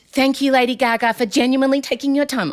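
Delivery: mock-British reading, lightly put on; British accent. Host reading a singer's post in a British accent. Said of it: "she's lost her American accent".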